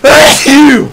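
high, loud sneeze with a redneck twang. Real, not acted. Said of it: "I actually sneezed in redneck".

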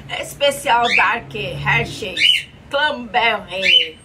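loud hype announcement; shouting. Acted. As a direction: shout the product name. Loud product announcement intro.

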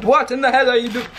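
imagine a cook dad catching the mistake; mock disbelief, a little sped up; imitating appalled dad.

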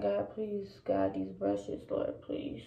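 slow, hushed plea to God; prayer. Real, not acted. Praying over makeup brushes.

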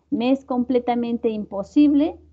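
"imposible" firmly stressed. Shown as a demonstration. Teacher demos an assertive student, stressing "imposible". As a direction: lean on "imposible". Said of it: "recalcar la palabra imposible".

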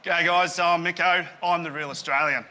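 a bold, slightly loud Aussie greeting; Australian accent. Acted. Contestant claiming to be the real Australian, Aussie accent. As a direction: introduce yourself in an Australian accent. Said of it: "The rest are putting on an accent".

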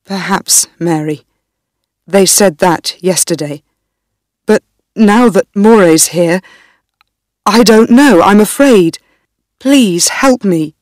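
a hint of a scared young husband, pleading; lightly voiced frightened husband begging his wife. Darnley afraid again.

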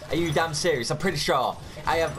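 real frustrated outburst; outraged disbelief. Real, not acted. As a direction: snap in disbelief at the game. Outraged at missing charge.

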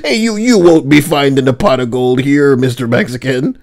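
hammed-up Irish scolding; playful cartoon Irish brogue; lightly put-on Irish accent; mock Irish accent. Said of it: "Listen to this Irish thing".

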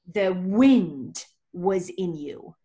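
slow hushed whisper; whispered secret. Retold or imitated. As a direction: breathe it like a secret. Rabbi's final secret words.

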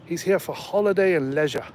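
a light imitation of an Australian; Australian accent. Driver retelling why his passenger came, light Australian accent. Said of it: "he sounded Australian".

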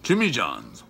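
talking while chewing; speaking through food; mouth full. Real, not acted. Seen 1: bites sandwich before; cheeks stay full, chewing between words.

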